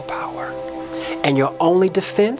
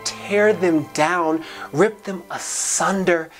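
higher-pitched, impassioned spoken-word climax; rousing exhortation; 4 semitones higher than usual. Acted. Charging listeners to tear down the walls, rousing and high-pitched. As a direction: build it like a preacher's charge, pitch climbing.

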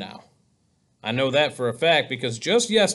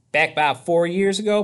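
put-on higher-pitched boy's storytelling voice; lively character voice; Possum the storyteller; 4 semitones higher, 4 dB louder than usual. A narrator's reading. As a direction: launch into a tale to a friend.

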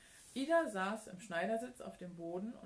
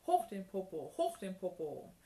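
loud drill-coach chant; commanding; 5 dB louder than usual. A narrator's reading. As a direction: bark it like an exercise order. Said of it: "kommandierte sie". (laut kommandiert)

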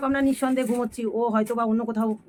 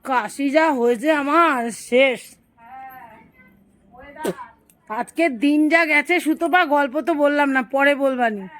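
laughing through a cough; 3 semitones higher, 6 dB louder, slower than usual. Real, not acted.

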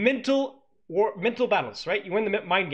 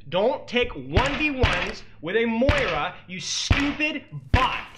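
exasperated scolding; 4 semitones higher, much slower than usual. Real, not acted. Scolding player on screen.

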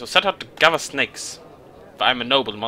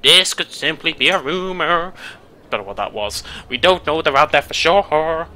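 elder monster voice; 2 semitones higher, 4 dB louder than usual. Acted. A lightly voiced elder warning the village. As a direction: speak like a cautious old monster elder.

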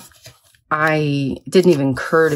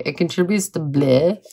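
amused at herself. Real, not acted. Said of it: "I am definitely keeping this narration".

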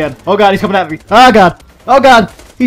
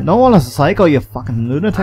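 put-on Scottish scolding; Scottish accent. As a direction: insult them in a mock Scottish accent. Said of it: "That's a Scottish accent".

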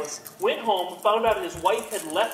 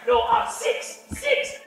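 goblin husband; 4 dB louder, slower than usual. Acted. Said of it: "my wife comes out".

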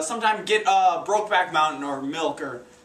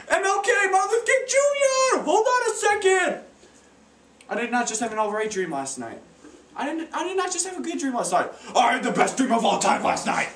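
imitating a rapper; 10 semitones higher than usual. Acted. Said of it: "a rapper would time travel".

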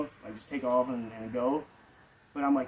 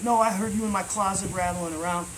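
higher-pitched retold accusation; freaking out; 6 semitones higher than usual. Homeowner accusing him of rattling in her closet, imitated high freaking out. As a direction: imitate her agitated rant, trailing into blah-blah. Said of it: "freaking out".

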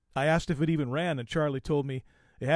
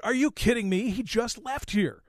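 loud and high, half-acted disbelief; mock yell of shock at a friend; retold shout; 8 semitones higher, 3 dB louder than usual. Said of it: "I shouted".

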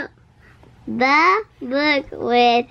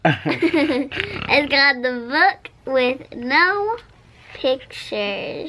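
laughing; slower than usual. Real, not acted. Laughing through the title.

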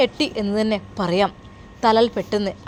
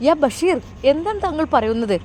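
shocked; 5 semitones higher than usual. Acted. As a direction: question the news in dismay. Employer shocked the couple is separated. (അവിശ്വാസത്തോടെ, ഞെട്ടി)

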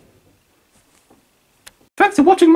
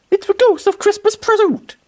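mock gasp; 4 semitones higher than usual. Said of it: "Oh wait".

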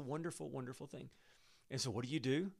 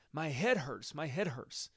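crying out; 2 semitones higher, 4 dB louder, slower than usual. Acted. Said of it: "Suddenly he cried out".

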